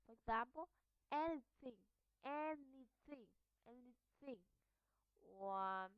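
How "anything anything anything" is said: "anything" with voiceless TH in the middle; TH mid-word. Shown as a demonstration. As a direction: model "anything" carefully, airy TH mid-word. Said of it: "in the middle of the word".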